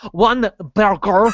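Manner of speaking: put-on Davy Jones accent. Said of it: "It was like Davy Jones' accent".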